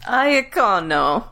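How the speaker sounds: "Aecono" drawn out slowly in a mock Italian accent. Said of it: "A Kaon accent?".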